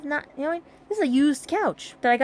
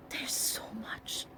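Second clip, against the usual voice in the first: slow breathy whisper; 2 semitones lower, 16 dB quieter, much slower than usual. Real, not acted. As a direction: drop to a whisper. Aside whispered while sorting things.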